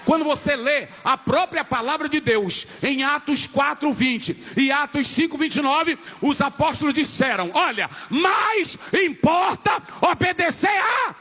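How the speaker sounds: preacher rising to full force; impassioned preaching. Real, not acted. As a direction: hurl out the scripture for the crowd to finish. Preacher builds to shouted verse.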